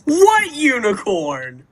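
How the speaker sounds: high, slow silly voice; drawn-out mock voice; put-on voice. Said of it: "that was awful".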